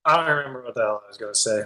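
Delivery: talking while munching chips; words around a mouthful of chips; crunching chips. Real, not acted. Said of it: "Sorry, I'm stoned eating chips".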